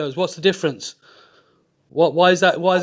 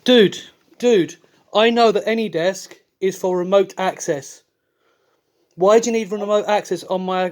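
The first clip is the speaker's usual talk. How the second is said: exasperated confrontation. Real, not acted. Caller calls out the scammer on remote access, exasperated.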